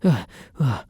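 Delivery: two sharp waking gasps; jolted awake, catching breath; startled gasps. Acted. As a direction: gasp awake in alarm. Wakes alarmed, partner gone.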